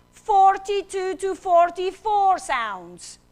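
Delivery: each number spelled out slowly; slow emphatic. Shown as a demonstration. Teacher stressing the key fact to the audience, slow and emphatic. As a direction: lean on Forty-two to forty-four, drawn out. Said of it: "Very important".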